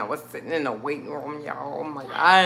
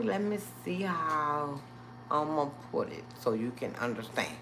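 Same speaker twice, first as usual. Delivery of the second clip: imitating the doctor; 3 semitones lower, 10 dB quieter than usual. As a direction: lightly play the careful doctor. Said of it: "when he say that".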